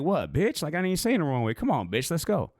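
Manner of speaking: high mocking taunt, still joking; playful taunt. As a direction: keep teasing him. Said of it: "I kept saying it like that".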